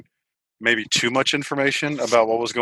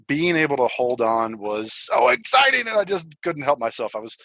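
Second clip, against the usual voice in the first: real excitement; 2 semitones higher than usual. Real, not acted. Second-place finisher telling the interviewer about the finish, still excited. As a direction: still buzzing with adrenaline. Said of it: "you're still very excited, and the adrenaline's coursing through you".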